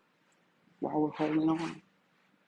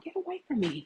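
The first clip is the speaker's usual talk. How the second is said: higher, emphatic push-away on away; firm dismissal; 5 semitones higher, faster than usual. Shown as a demonstration. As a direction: shove them off with the words. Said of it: "That's how I want it to sound".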